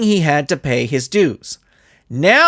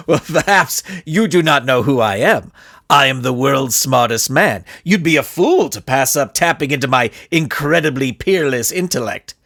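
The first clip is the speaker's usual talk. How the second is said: pompous villain; 2 semitones lower than usual. Acted. Villain's haughty voice.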